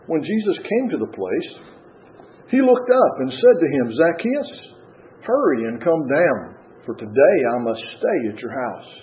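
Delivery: measured Bible reading with lilting emphasis; scripture reading. Acted. Preacher reads Zacchaeus passage to congregation, deliberate scripture reading. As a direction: read the passage aloud, pausing between phrases.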